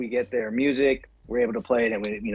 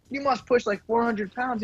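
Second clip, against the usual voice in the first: hyped gym bro; 8 semitones higher than usual. Retold or imitated. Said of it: "he's like".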